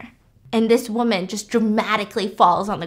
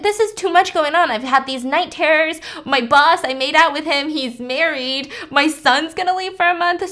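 frantic rant; 4 semitones higher than usual. Retold or imitated. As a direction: spill everything out in a panic. Louise freaking out.

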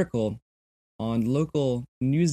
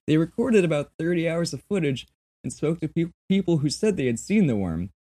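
a hint of a New Zealand accent, higher; half-hearted New Zealand accent; 6 semitones higher than usual. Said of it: "I should be doing my New Zealand accent".

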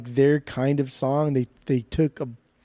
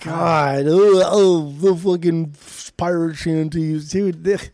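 excited; 3 semitones higher, 4 dB louder, slower than usual. Real, not acted. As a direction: burst out in delight. Gushing over pirate shanties.

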